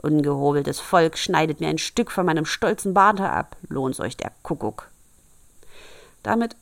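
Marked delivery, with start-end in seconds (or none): 0.0-4.9 grumbling to himself. Acted. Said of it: "brummte vor sich hin".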